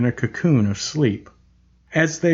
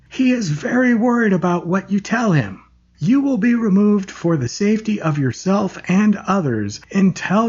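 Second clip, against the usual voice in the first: a lightly higher, firm, controlled voice; raised but calm; 4 semitones higher than usual. Acted. The nurse addresses the room, raised but calm. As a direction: speak up so the whole room hears, unhurried. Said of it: "in a raised but calm voice".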